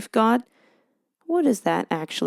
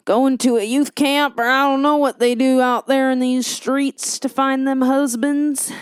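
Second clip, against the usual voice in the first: hammed-up, louder Southern twang; folksy mock Southern drawl, pitched up a little; poor Southern accent; 4 semitones higher, 3 dB louder than usual. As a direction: put on a bad Southern accent. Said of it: "talking with a really poor Southern accent".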